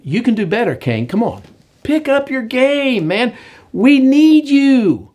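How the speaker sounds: urgent pep talk. Acted. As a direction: coach a lazy player to step up. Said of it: "I think God's saying".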